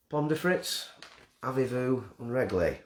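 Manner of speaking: a quick, hammed-up French accent; mock French accent. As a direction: toss off some mock French words in a French accent. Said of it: "I genuinely don't know the accent for this country".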